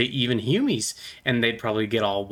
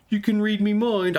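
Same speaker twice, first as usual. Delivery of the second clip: higher, odd mind-reader goblin; a put-on goblin mind reader; 9 semitones higher than usual. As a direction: claim you can read minds, pitched up. Goblin mind-reading bit.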